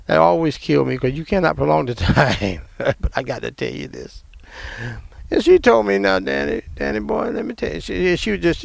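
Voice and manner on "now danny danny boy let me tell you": loving grandmother. Retold or imitated. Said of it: "know how to say it so lovingly".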